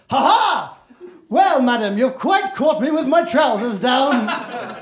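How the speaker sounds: hammed-up suave charm; smooth it over like a gentleman caught out; charm offensive. To the woman who walked in, mock suave charm. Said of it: "just go with the charm offensive".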